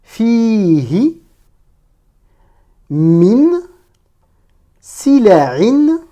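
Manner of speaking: single words between long pauses; careful, held-out reading; detached word-by-word. Shown as a demonstration. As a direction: model each Arabic word separately. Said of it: "chaque mot de manière détachée".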